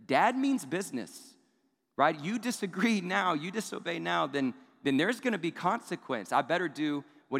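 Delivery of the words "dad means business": stern dad tone. Retold or imitated. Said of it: "I get a tone with my kids".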